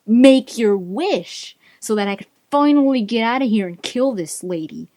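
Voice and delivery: imitating a yelled order, easing off; retold yelled command. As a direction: bark out a mock command. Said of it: "it yells this, like, command".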